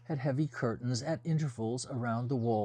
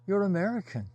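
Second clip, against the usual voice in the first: delighted surprise; 8 semitones higher, 6 dB louder, faster than usual. Acted. Her eyes lit up at his accent.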